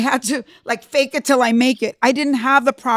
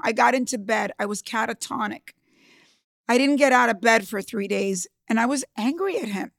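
normal talking voice

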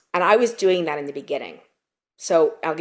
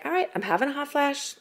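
calm self-talk; 4 semitones higher, 4 dB quieter than usual. Retold or imitated. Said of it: "be like".

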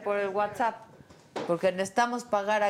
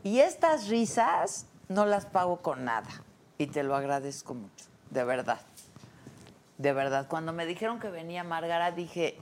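a heartfelt lower thank-you; sincere; 5 semitones lower than usual. Real, not acted. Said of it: "ya hablando en serio".

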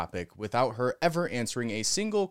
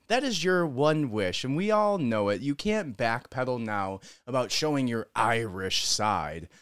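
ordinary talk

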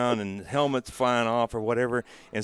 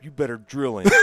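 louder, emphatic retold order; mock order; 4 semitones higher, 6 dB louder than usual. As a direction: bark it out like a veteran.

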